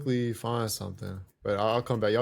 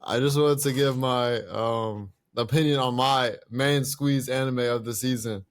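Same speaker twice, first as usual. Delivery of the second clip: British accent impression; earnest British voice recommending an anime. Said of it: "tell him you impersonate him right now".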